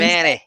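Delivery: Nevada with the "a" of "cat", ne-VAD-a; western pronunciation. Shown as a demonstration. Guest correcting the host, short-a pronunciation. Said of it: "watch here".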